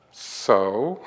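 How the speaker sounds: retold unimpressed retort, drawn out. Friend baffled by tears over mascara, unimpressed. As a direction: act out not getting the fuss.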